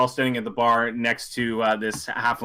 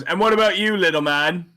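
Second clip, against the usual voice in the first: louder, higher sneer; dealer taunting; 5 semitones higher, 4 dB louder than usual. Acted. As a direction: poke at the small one. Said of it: "he turns to you and goes".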